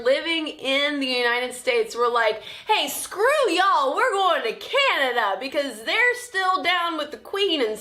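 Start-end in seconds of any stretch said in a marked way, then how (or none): 2.7-5.4 hammed-up declaration of walking out; mock defiance. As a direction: play rebels announcing their exit. Loyalists' defiant quote acted out.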